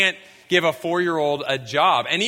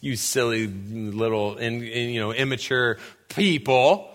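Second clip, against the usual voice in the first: condescending parent; 7 semitones lower than usual. Retold or imitated. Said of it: "I'm kind of like".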